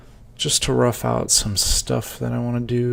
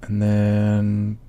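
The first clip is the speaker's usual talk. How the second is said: hiccuping between words; talking through the hiccups. Real, not acted. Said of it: "Excuse me for the, uh, hiccups".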